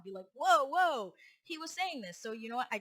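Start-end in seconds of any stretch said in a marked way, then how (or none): 0.3-1.1 higher, louder drawn-out interjection; calming someone down. Retold or imitated. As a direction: imitate a colleague stepping in to slow things down. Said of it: "trying to get him to calm down".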